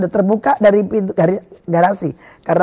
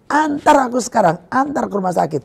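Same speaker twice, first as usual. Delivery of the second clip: retold demand; 5 semitones higher than usual. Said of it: "Saya udah teriak-teriak begitu".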